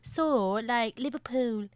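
British lady. Retold or imitated. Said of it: "that British lady ... where she's like".

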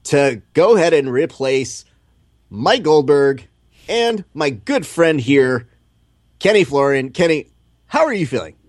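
hammed-up broadcaster voice; high, eager TV host; excited announcer impression. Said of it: "are you sitting at home being like".

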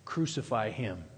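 low, soft echo of a crowd's shout; hushed retold cry. Preacher quoting the crowd's demand for crucifixion, hushed and low. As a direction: let the crowd's demand drop grave and quiet. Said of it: "they will be shouting".

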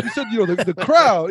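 high-pitched mock accusation, landing loud; Disco. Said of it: "He's all high".

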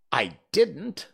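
high, loud denial; hurried interruption. A narrator's reading. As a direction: cut in quickly to deny it. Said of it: "interrupted in a great hurry".

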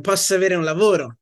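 put-on Italian spoken without an American accent; native Italian accent. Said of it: "with an Italian accent".

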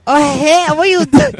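put-on very high, loud caricature Asian accent. Comic performs Asian voice on co-host's request, exaggerated. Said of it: "can you do the Asian voice again".

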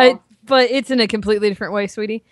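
thick Southern twang, drawled sweetie; a diner waitress calling you sweetie; Southern waitress accent. Shown as a demonstration. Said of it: "country stop diner waitress kind".

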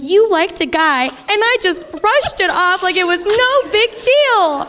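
high, drawn-out dramatic wail; retold tearful outburst. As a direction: wail the confession slowly, half laughing. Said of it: "on the verge of tears".

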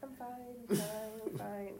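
choked, coughing after water went down the wrong pipe; sputtering out words through a cough. Real, not acted. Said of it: "It sound like something phlegm in there".

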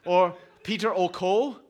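light put-on Irish accent. Preacher jokingly introduces himself under an Irish name, Irish accent. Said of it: "my Irish accent".

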